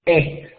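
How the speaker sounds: "E" said through a mouth opened for A; digraph vowel. Shown as a demonstration. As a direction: shape A but sound "E". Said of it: "en lugar de decir la A, van a decir E".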